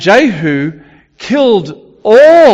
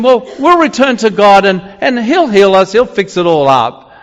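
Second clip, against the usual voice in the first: sarcastic; 5 semitones higher than usual. Retold or imitated. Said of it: "this is said sarcastically".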